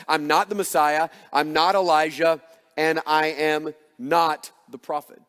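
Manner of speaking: firm, emphatic I'm not, three times; emphatic denial. Retold or imitated. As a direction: stress on not each time. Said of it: "So emphatically, very quickly".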